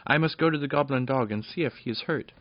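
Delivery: the princess begging to see the hurt dog; earnest little princess. Acted. Fenella insists on the dog.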